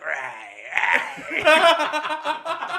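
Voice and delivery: high, loud cute creature growl; Raichu growl. Retold or imitated. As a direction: squeak out a Pikachu-like roar. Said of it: "she's like".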